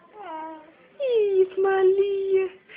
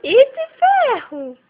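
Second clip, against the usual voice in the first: slow, higher, louder "Eita, ferro!"; drawn-out exclamation; 4 semitones higher, 5 dB louder, slower than usual. Real, not acted. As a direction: stretch the surprise out.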